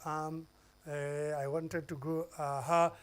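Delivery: hesitant filler demo. Shown as a demonstration. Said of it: "using some noises like humming and ha".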